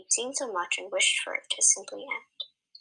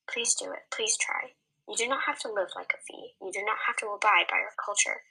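softened voice. Acted. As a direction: coax her gently. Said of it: "Arminick's voice softened".

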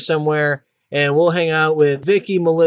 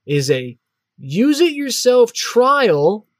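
slow, drawn-out pitchman read; infomercial; 3 semitones higher, slower than usual. Pretend. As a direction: savor each word like an ad. Mock award and ad read.

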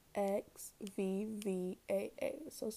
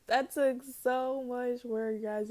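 near tears; 4 semitones higher, 7 dB louder, slower than usual. Real, not acted. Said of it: "really wanna cry right now".

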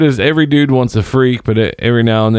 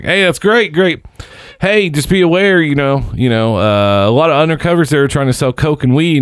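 higher, chummy warning voice; friendly stranger; 5 semitones higher than usual. Retold or imitated. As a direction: mimic the nice guy tipping him off. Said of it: "He's like".

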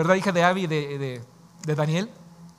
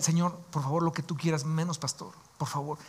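tearful plea; 6 dB quieter than usual. Retold or imitated. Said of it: "Lloraba y le decía".

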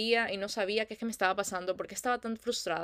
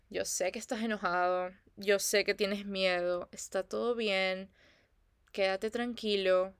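तसल्ली देती माँ. Retold or imitated. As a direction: gently reassure an upset baby, unhurried. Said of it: "Y llega la tercera mamá".

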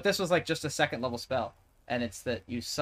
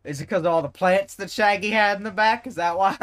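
put-on old man voice; 8 semitones higher, 10 dB louder than usual. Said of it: "I'm still doing my old man voice".

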